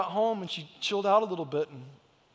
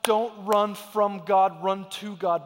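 slow, louder push on don't run; emphatic plea; 5 dB louder, much slower than usual. Real, not acted. Preacher urging the church not to run, firm plea. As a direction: plead it slowly and firmly.

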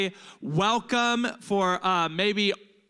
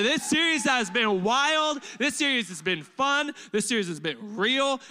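hyped up; 5 semitones higher, 4 dB louder than usual. Acted. Hyping the crowd.

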